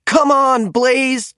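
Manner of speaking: loud high cheer; root for him to win. A narrator's reading. Racers to Blaze, a loud high cheer. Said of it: "cheered the other monster machines".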